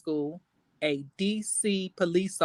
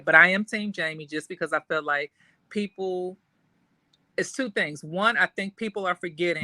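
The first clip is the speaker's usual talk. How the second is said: muffled, far from the mic; speaking away from the mic. Real, not acted. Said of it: "Why do you sound like you're so far away?".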